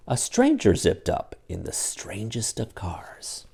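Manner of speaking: lively read-aloud storybook voice; animated picture-book reading; story narration. A narrator's reading. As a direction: read it like bedtime for kids. Reads Dr. Seuss aloud to children.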